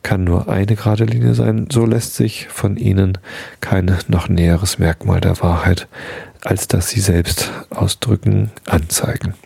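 measured philosophical text reading; formal reading. Acted. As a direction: read the dense text steadily aloud. Reads Kant aloud.

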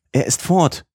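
high, alarmed cry; alarmed call. A narrator's reading. Old servant Martha running in after the door slams, high alarmed call. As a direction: call out that he has run off. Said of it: "rief Martha".

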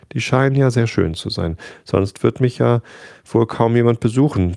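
a proud little flower brushing off worry; proud fragile flower. Acted. Flower reassuring the departing prince, lightly voiced.

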